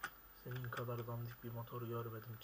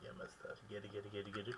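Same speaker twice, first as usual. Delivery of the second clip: quiet unvoiced whisper; 3 semitones lower, 7 dB quieter than usual. Real, not acted. Gamer whispering to himself that it won't work. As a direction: breathe it as a whispered aside.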